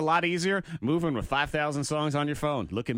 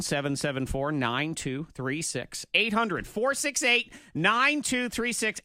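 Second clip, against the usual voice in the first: radio announcer read; 3 semitones higher, slower than usual. Acted. Radio phone number read.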